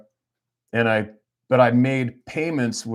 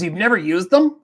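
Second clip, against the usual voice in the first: astonished wife; 9 semitones higher, 6 dB louder than usual. Retold or imitated. Wife amazed at unused points.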